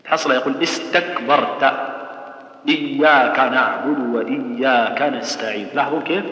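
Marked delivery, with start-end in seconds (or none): 0.6-1.7 استكبرت with K and T stopped, no breath after them; no aspiration. Shown as a demonstration. Teacher mimicking those who ignore hams, no aspiration. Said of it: "لا يعترف بهمس لا في الكاف ولا في التاء". 2.7-5.7 slow recited إياك نعبد وإياك نستعين, each K without a puff; no aspiration. Shown as a demonstration. Teacher mimicking a faulty reciter, no aspiration on kaf. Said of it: "لا يعترف بهمس".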